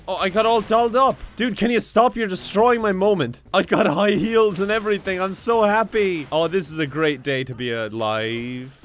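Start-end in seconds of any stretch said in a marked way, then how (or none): 0.1-6.3 giddy and a bit indignant; excited and dolled up. Acted. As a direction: gush about your new look.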